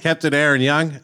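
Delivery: hammed-up American accent on the name; playful American accent for the guest's name; mock American accent. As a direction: give the name a jokey American twang. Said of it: "my best American accent".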